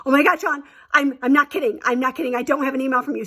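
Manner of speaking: imitating a friend in mild panic; panicked disbelief. Friend panics about the email.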